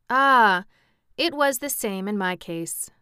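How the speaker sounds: loud opening Ah, then easy; pleasant. A narrator's reading. King sharing Jack's lot of being created, pleasant. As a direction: sympathise pleasantly after an open exclamation. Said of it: "said the king pleasantly".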